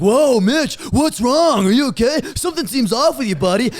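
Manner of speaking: concerned grapes. Acted. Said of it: "all the grapes are like".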